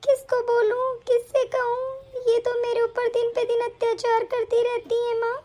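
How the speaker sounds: acted helpless weeping; tearful lament. Daughter tells her absent mother of mistreatment, tearful. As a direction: cry out to mother in despair.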